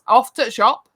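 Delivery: Yorkshire clip, "off to the shop" run together; clipped Yorkshire "off to the shop". Shown as a demonstration. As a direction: drop the words, Yorkshire style.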